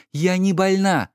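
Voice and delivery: a hint of an irritated wife; Lady Laura. A narrator's reading. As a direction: brush it off as the weary wife.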